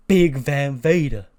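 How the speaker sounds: slow, drawn-out character voice; slow mock awe; put-on excited voice. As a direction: stretch out the name in awe. Truth's mistaken name.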